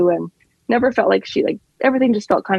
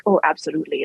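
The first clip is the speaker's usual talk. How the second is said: brief demo of an Irish accent; 4 semitones lower than usual. Shown as a demonstration. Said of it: "an Irish accent is more about".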